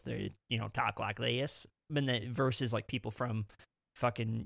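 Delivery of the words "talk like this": lightly imitated Deep South accent; quick demo of Southern US speech. Shown as a demonstration. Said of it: "the very deep South".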